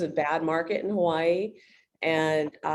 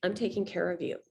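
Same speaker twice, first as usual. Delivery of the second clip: gentle, understated reassurance; caring tone; 4 dB quieter than usual. Shown as a demonstration. Agent showing the tone for a new lead, caring. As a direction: let them feel looked after. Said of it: "the tone is just more".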